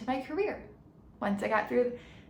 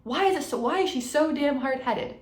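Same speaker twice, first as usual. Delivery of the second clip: exasperated coach; 4 semitones higher than usual. Retold or imitated. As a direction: play the fed-up coach ranting about her. One of the coaches come in and goes.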